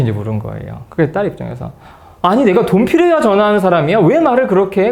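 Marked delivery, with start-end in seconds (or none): 2.2-4.9 high, louder indignant protest; imitating a daughter's indignant outburst; hurt angry daughter. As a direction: fire back at mom, offended. Daughter snaps at mother on phone.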